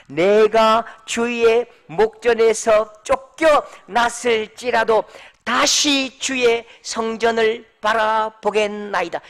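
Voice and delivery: measured, drawn-out scripture reading; slow unison recitation. Shown as a demonstration. Pastor leading congregation in reading, slow and deliberate. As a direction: read it slowly together with the church. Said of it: "다 같이 시작".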